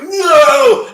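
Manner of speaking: high, loud, yelped no; sudden loud no. Retold or imitated. Friend waking up, shouting to stop the 911 call.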